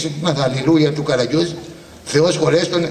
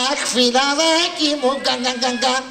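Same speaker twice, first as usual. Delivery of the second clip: hammed-up sobbing lament; 6 semitones higher than usual. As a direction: drag out the cry then sob. Mock lament, stuttering sobs. (θεατρικό, αργό κλάμα με λυγμούς)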